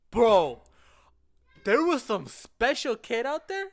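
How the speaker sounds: stunned retelling, loud and drawn out; loud whisper voice. Retold or imitated. Friend reporting what he saw in class, loud whisper voice. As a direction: imitate a loud, astonished stage whisper. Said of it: "in a loud, like, whisper voice".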